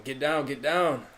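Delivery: mild retold yell, stretched out; imitated yell. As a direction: call it out slowly, imitating a player's yell. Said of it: "Chris was yelling".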